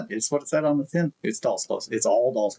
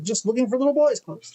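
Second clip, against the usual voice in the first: higher, louder repeat for a deaf ear; raised voice repeat; 12 semitones higher, 3 dB louder than usual. Retold or imitated. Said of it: "And I was like".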